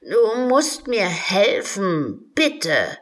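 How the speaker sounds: slow, pleading whine; whining. Acted. The trapped unicorn begs Alice for help, whining. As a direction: beg for help, moaning. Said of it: "jammerte das Einhorn".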